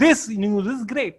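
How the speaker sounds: very slow, word by word; slow example. Shown as a demonstration. Teacher slowly reading a second example sentence. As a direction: read it out deliberately. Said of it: "underline कर रहे हैं".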